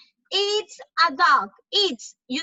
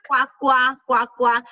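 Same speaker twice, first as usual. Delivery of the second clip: duck quacks; 4 semitones lower, 4 dB louder than usual. Shown as a demonstration. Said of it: "the duck sounds".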